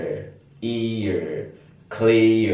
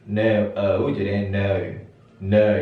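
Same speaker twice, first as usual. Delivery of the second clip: British "no" with an eu glide, neu; British English "no" as neu; slower than usual. Shown as a demonstration. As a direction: say "no" the British way, rounded eu. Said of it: "British akan dibaca no".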